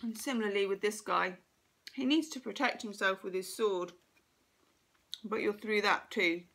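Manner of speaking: talking while crunching a sweet; crunching lozenge. Real, not acted. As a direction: speak around a crunching lozenge. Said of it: "Excuse the crunching".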